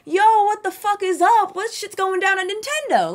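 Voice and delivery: loud, high-pitched goofy holler; mock unprofessional greeting. Vlogger pretending to greet Nintendo's president, in a loud goofy holler. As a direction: blurt it like an over-hyped buddy, way up high. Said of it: "I wouldn't be like".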